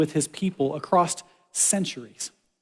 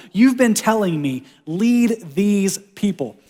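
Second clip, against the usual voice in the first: frustrated Moses; 3 semitones higher, slower than usual. Retold or imitated. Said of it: "frustrated font from Moses".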